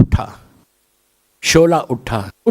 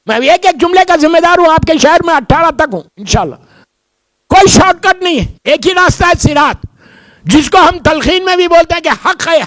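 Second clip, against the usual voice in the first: high, loud preaching voice; full preaching; 13 semitones higher, 4 dB louder than usual. Acted. Preacher stirring the congregation about the bridge, high and loud.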